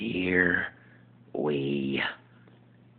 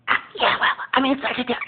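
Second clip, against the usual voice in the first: higher, louder flamboyant sitcom voice; Jack impression; 6 dB louder, faster than usual. Jack telling Will about his crisis, high and loud. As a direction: burst in with drama. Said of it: "impersonation of ... Just Jack".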